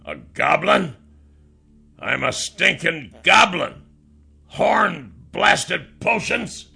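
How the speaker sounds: high-pitched disgusted grumbling; outraged high goblin voice; indignant goblin. Acted. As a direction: curse the potions in a high character voice. Dwarf finds himself turned goblin.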